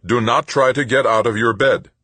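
automated warning from the bed monitor; synthesized computer voice. A narrator's reading. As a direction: announce it like a hospital computer. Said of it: "the computer repeated".

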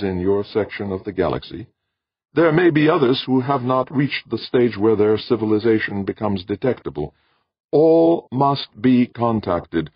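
high, measured voice of an alien being. Acted. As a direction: speak as a calm cosmic presence. Alien voice explains mission.

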